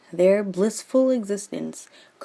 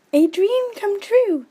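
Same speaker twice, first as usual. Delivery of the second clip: put-on slow, much higher dreamy girl; Juliet's voice; 14 semitones higher, 5 dB louder than usual. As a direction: swoon over your true love. Juliet gushing to friend.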